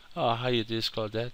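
put-on high, sugary French accent.

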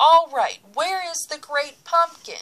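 demanding, high, loud yelling. Sally turns to Linus once the other kids have left, shouting. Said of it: "Sally turned to Linus and shouted".

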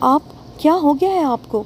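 breathless half-shout. A woman cries out to the man embracing her, breathless and half-shouting. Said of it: "फूलती सांसों के दरमियान बमुश्किल हल्का सा चिल्लाई".

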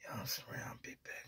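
secretive, very hushed, barely-there whisper. Acting out someone quietly admitting he is a Serrano: imitating a whisper. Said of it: "He gonna whisper in your ear".

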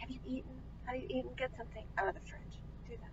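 hushed, breathy nagging, near a whisper. Speaker imitates what their mom always says to them: imitating their mom. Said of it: "I can't do a good impression of my mom".

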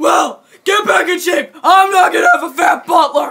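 fierce, ferocious voice. Ordering a butler who got fat on donuts to get back in shape, fierce voice. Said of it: "When did your voice become that fierce?".

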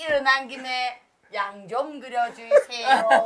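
Gyeongsang regional dialect. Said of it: "어린 왕자 경상도 사람이었다고요?".

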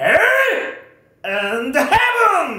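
very high, slow, shouted anime robot battle cry. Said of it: "팔백 회 특집인데 나 이 정도 해도 되잖아".

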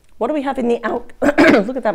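breaking, cracking voice mid-line. Speaking to the viewer about the Star, voice cracking. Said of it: "My voice just broke".

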